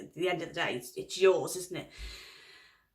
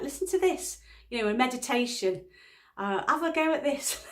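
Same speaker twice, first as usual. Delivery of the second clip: higher-pitched, persuasive suggestion; coaxing; 4 semitones higher than usual. Retold or imitated. Wife retelling how she tried distracting husband with meditation, coaxing. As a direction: try to tempt someone into a distraction.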